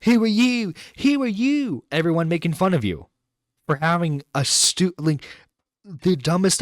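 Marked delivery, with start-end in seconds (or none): 0.1-1.8 high, loud incredulous "who are you"; scoffing. Real, not acted. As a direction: hit it like you can't believe her nerve. Scoffing at the woman in the clip.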